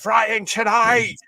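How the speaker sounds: high, loud, slow drawn-out call; chippy man's shout. Retold or imitated. Chippy owner calling out to the customers, a loud drawn-out shout. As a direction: call it out like a fish-and-chip shop man. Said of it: "I remember the guy actually shouting that".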